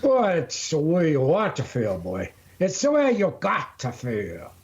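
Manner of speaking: high, hammed-up folksy preaching; lecturing a young man like a folksy elder; mock country elder. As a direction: preach it like a backwoods grandpa.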